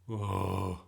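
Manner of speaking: long, loud groan. A narrator's reading. Bertie hearing nosy Nick butt in, groaning. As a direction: groan at an unwelcome intruder. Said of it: "Bertie groaned".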